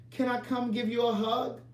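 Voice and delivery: high-pitched retold request; eager friend's greeting. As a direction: lift the voice as if greeting someone. Friend greets man, asks to hug.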